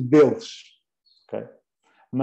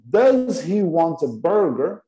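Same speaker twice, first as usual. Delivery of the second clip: slow, clear question with a rising end; slow model question; 3 semitones higher, slower than usual. Shown as a demonstration. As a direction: spell out the question slowly for learners. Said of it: "O que é que eu estou a perguntar aqui?".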